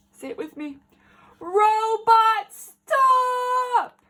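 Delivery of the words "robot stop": high, loud commanding yell; enormous shout. Acted. Dad and child shouting at the robot, enormous shout. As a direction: bellow it to halt the robot. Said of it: "give an enormous shout".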